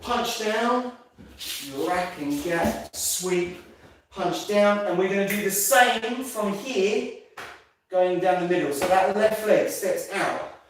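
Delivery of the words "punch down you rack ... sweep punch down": slow demo count. Shown as a demonstration.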